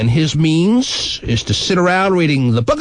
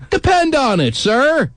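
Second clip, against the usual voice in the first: grand declaration; 9 semitones higher, slower than usual. Acted. Quote recited mid-sex.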